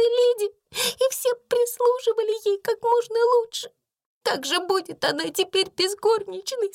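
выше, со всхлипами; робко упрашивать; умоляющая Бекки. A narrator's reading. Бекки умоляет сквозь слёзы. (Бекки просит служить Саре)

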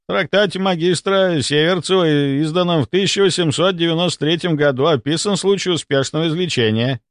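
indignant. A narrator's reading. Doctor disputing the captain's verdict, indignant. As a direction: protest by citing the evidence. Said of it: "возмутился доктор Мелехов".

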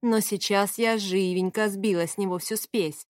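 ordinary delivery, nothing marked

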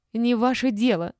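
high, loud retort; indignant squeal. A narrator's reading. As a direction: squeal at them to back off. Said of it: "взвизгнула Олечка".

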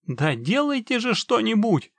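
high, loud, desperate outburst; breaking into shouting. A narrator's reading. Trapped man urges the witcher to act, frantic shout. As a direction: burst out in frantic impatience. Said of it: "снова сорвался на крик человечек".

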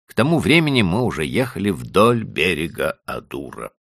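usual speaking voice

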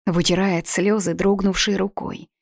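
usual speaking voice

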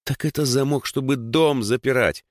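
mildly defensive comeback; quick retort. A narrator's reading. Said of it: "парировала Даша".

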